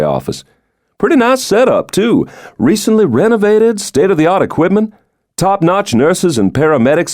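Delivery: teasing about his rich father, pitch lifted; lightly voiced president. Stoddard describes the clinic.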